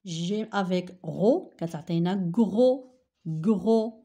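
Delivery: gros loud, the gr clearly sounded; model word. Shown as a demonstration. Teacher drilling gros for the class. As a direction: bark out gros with a firm gr. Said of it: "Regardez, il y a la consonne R".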